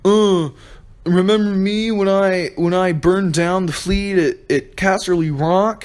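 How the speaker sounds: high, slow, drawn-out mock Euron. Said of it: "Euron's like".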